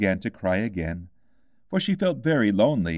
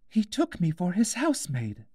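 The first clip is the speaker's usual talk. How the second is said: put-on high, light girl's voice, wistful; a young girl missing her cat; Alice, wistful; 10 semitones higher than usual. A narrator's reading.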